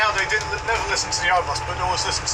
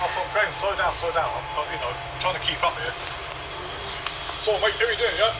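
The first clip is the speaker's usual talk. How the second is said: fast Glaswegian chatter. Retold or imitated. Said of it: "Like Ramsey Nesbitt".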